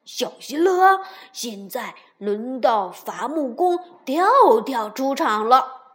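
loud, proud announcing shout; happy shout. A narrator's reading. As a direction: announce yourself with glee. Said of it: "开心地喊道".

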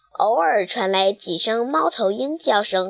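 ordinary delivery, nothing marked

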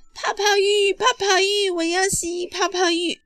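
put-on high, loud little-girl chant; child shouting. A narrator's reading. Little sister demands a bubble bath, high insistent shouts. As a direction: clamour for it in a child's voice. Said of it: "小熊妹妹又喊起来了".

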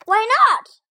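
high, loud, puzzled question. Acted. Frog asks Toad why he won't chase the list, high and loud. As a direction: ask in disbelief.

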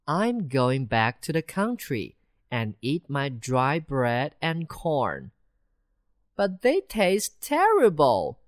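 high, small mouse voices; two mice debating city and country life; chatting mice. Acted. Mice talking in the hole.

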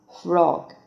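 "frog" with a short rounded o; third pronunciation. Shown as a demonstration. Teacher shows learners the third reading, "frog" with short rounded o. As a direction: say "frog" with a brief o, lips rounded. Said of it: "第三种读法".

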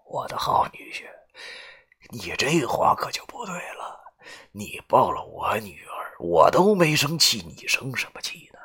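father-in-law softly taunting his son-in-law; softly spoken. A narrator's reading. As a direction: purr it quietly, mocking. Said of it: "轻声地对我说道".

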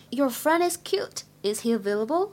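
slow, careful reading, rising question; slow example. Shown as a demonstration. Teacher repeats the example for students to copy. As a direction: read the example slowly. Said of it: "比如说".

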